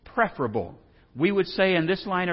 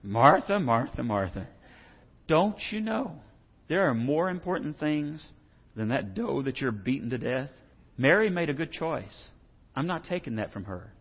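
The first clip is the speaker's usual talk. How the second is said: softer, calm, patient rebuke; gentle Jesus; 5 dB quieter than usual. Retold or imitated. Jesus gently answering a frantic Martha, soft and calm. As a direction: lovingly correct her, quietly. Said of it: "And what does Jesus say".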